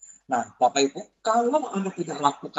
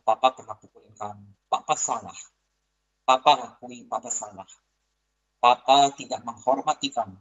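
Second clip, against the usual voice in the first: put-on lower, humble apology to the child; sincere parental apology; 4 semitones lower than usual. Shown as a demonstration. Father apologizing to the child he hit, low and humble. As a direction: own the mistake gently, as a father to his son. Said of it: "Anda spesifik ngomong sama anak Anda".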